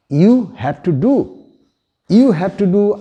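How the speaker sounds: measured, insistent instruction; commanding. Shown as a demonstration. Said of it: "somebody is forcing".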